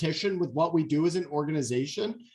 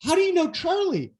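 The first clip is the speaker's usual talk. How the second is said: quoting Raymana; 12 semitones higher than usual. Retold or imitated. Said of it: "He goes".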